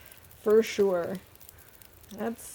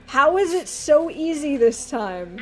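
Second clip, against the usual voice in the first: amazed disbelief; 5 semitones higher, 8 dB louder, slower than usual. Real, not acted. Surprised by easy climb.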